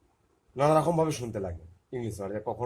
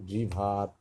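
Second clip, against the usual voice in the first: slow; much slower than usual. Shown as a demonstration. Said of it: "ইয়ের উচ্চারণটা আয়ের মতো আসছে".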